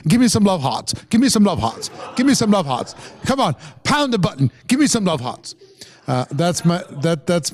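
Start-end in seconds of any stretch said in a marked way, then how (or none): 0.1-0.9 lightly imitated accent, dropping the R in "hearts"; Fraser impression. Host playfully mimics a fellow presenter for the audience, light accent impression. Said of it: "my Frasier impression". 1.1-5.5 lightly imitated accent, dropping the R in "hearts"; Fraser impression. Host playfully mimics a fellow presenter for the audience, light accent impression. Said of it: "my Fraser impression".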